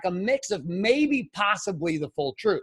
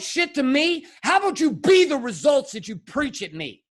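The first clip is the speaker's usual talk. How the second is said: furious rant at father; 5 semitones higher than usual. Retold or imitated. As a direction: tear into him. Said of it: "I was fucking furious".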